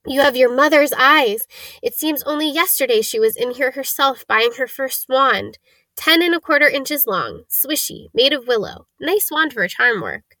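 a hint of an old wandmaker recalling the past; lightly voiced old wandmaker, reminiscing. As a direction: recall an old customer's wand, lightly in character.

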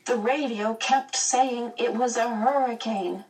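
put-on high-pitched worried girl; a mild wail of protest. A narrator's reading. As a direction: insist in a high, plaintive voice. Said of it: "Meg wailed".

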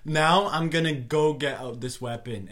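laughing, shouting it out; laughing protest. Retold or imitated. Mock-bragging to Sonia, laughing.

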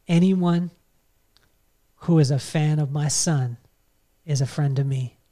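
measured, with long pauses between phrases; lightly raspy voice. Retold or imitated. Star's father welcoming a fan's dad, lightly raspy. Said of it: "in his raspy voice".

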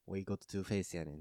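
put-on slow line in Osaka Kansai accent; Kansai dialect. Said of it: "関西弁で".

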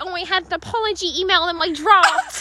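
mocking, half-laughing excuse; mock lame excuse. Friend mocking the groom's excuse, half laughing. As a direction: sneer his feeble excuse. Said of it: "He's like".

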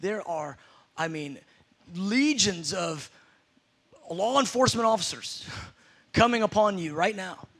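low, soft, steady command; calm authority. Retold or imitated. Believing deputy calmly tells the robber, soft and low. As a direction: stand tall and speak with quiet certainty. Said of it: "you would stand tall".

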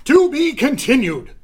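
big loud cliffhanger call; dramatic announcer. A narrator's reading. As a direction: boom it like a serial announcer. Cliffhanger sign-off.

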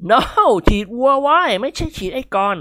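high, quick correction; urgent doctor voice. A narrator's reading. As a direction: set him straight fast. (หมอรีบแก้ความเข้าใจผิด)

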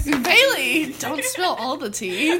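slow, laughing mock reproach; drawn-out, jokey telling-off; playful scolding. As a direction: chide a friend through giggles. Playfully scolds friend for oversharing.

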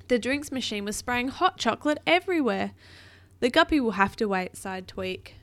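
put-on animated read-aloud for a child; storybook narration; story narration. A narrator's reading.

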